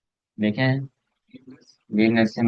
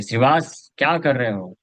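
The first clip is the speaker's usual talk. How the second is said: a mild mock call of the name; shouting call; 3 semitones higher than usual. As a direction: call out half-heartedly, pitch lifted. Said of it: "जोर से चिल्लाए".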